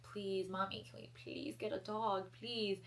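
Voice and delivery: put-on soft pleading child voice; mock childish begging. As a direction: beg mom sweetly for a dog. Begging mom for a dog.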